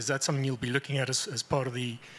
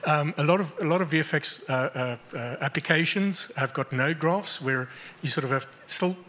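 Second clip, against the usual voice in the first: louder, projecting to the room; speaking up; 2 semitones higher, 3 dB louder than usual. Real, not acted. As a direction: speak up so the back hears. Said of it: "can you speak up a little bit?".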